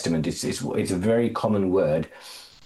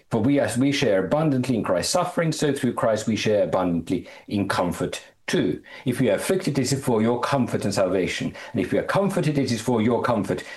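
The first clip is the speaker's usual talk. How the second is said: raised-pitch, emphatic reading of an epistle; scripture reading; 2 semitones higher than usual. Acted. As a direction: read the letter out to the congregation, lifting key words. Reads scripture to congregation.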